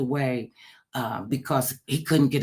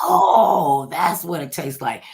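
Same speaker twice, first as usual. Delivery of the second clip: loud, rising oh of realization; mother tasting the beer, a loud delighted oh; delighted discovery; 6 dB louder, slower than usual. Retold or imitated. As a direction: savour the first taste. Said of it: "she said".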